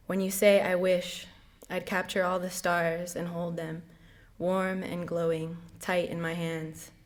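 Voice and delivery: measured poem reading, phrase by phrase; poem recitation. Acted. Reading a mother's poem to honor her and grandmother, poem recitation. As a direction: read the verse steadily, letting line endings settle.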